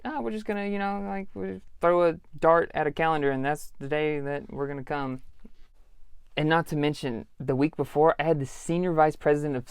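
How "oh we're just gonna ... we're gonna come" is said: high, airy mock-careless company voice; sing-song mockery of clueless bosses. Store manager mocks his company's careless scheduling, high and airy. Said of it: "Journeys was just like".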